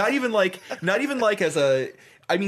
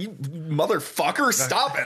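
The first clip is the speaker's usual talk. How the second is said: mock-angry curse, slow and higher; retold anger; 6 semitones higher than usual. Driver curses the sliding car, retold drawn-out anger. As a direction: draw out the swear, then order it to stop. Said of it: "it was partly anger".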